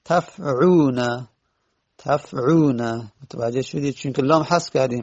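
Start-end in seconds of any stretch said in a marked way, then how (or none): 0.0-3.0 تفعونا said slowly and distinctly; slow, clear answer. Shown as a demonstration. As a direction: spell out تفعونا for the class. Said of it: "الان وزنش چی شد؟". (تفعونا را شمرده و آهسته بگو)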